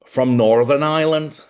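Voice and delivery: loud, lifted Belfast accent; Northern Irish accent. Shown as a demonstration. Host showing an actor's Belfast accent, Northern Irish accent. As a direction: put on a strong Belfast accent. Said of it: "his Northern Ireland Belfast accent".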